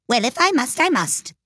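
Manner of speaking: high, resigned royal sigh of words; melancholy resignation. A narrator's reading. King told to cross-examine, melancholy and resigned. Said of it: "with a melancholy air".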